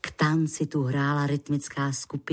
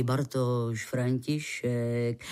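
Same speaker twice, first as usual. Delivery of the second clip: lightly voiced low, slow male character; man introducing himself; 6 semitones lower, slower than usual. A narrator's reading. Rescuer introduces himself to the lady, lightly voiced low and slow. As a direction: narrator hints at a man's low voice, drawn out. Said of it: "jak se v zápětí představil".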